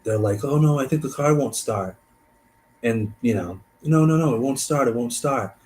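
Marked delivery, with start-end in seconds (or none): 0.4-2.0 higher, mildly panicked voice; mock panic. Lost men fearing the car is dead, mild mock panic. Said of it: "they're in such a panic". 3.8-5.6 mildly panicked, high at first then easing; mock panic. Lost men insisting about the car, mild mock panic. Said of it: "they're in such a panic".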